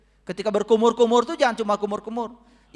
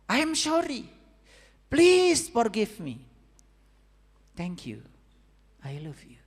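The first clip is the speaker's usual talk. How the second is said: heartfelt mantra; 4 semitones higher, slower than usual. Shown as a demonstration. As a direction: let each phrase ring out and die away. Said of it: "memiliki getaran yang luar biasa".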